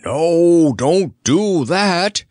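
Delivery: a slow, loud lion's protest; roaring lion. Acted. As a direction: roar it in a big lion voice. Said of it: "roared the Cowardly Lion".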